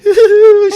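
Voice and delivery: high, loud mock wail; comic imitation of sobbing; imitated crying. Husband imitating his wife on the phone, mock crying. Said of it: "She's crying".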